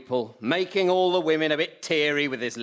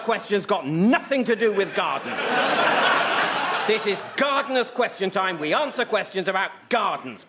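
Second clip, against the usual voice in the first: exasperated rant; 4 semitones higher than usual. Acted. Host berating a caller, mock exasperated shout. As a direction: shout the rules at her.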